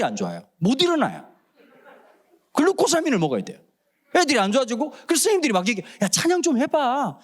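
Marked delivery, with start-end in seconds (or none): 6.0-7.2 teacher's urging. Retold or imitated. Teachers urging kids to sing.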